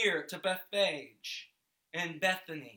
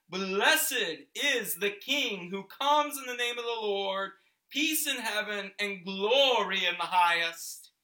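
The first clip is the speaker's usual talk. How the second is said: raised voice of a rejoicing crowd; loud praise; 4 semitones higher, 6 dB louder than usual. A narrator's reading. Disciples praising the King as he rides in, loud and jubilant. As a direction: proclaim it loudly, pitched up. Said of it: "with a loud voice".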